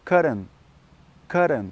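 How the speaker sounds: cotton with a very light D in the middle, stress up front; model pronunciation. Shown as a demonstration. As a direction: cotton said cleanly as kod-n. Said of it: "répétez après moi".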